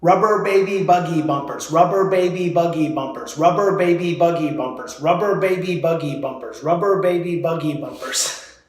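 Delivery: put-on "rubber baby buggy bumpers" rattled off evenly on one breath; continuous diction drill, steadily tapering; repeated tongue twister. Shown as a demonstration. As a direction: run the phrase round without stopping. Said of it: "let's try it five times".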